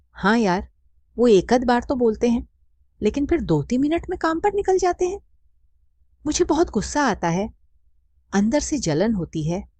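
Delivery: a hint of a fed-up wife venting; lightly voiced woman friend. A narrator's reading.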